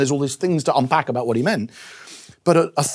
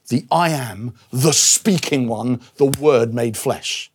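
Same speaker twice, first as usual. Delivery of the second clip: slow, weighty declaration; 2 semitones lower, much slower than usual. Acted. Climax of Jesus's claim, voiced.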